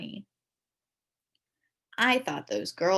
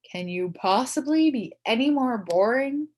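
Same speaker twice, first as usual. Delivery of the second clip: mocking jab; 5 semitones higher, 7 dB louder than usual. Boy insulting girl.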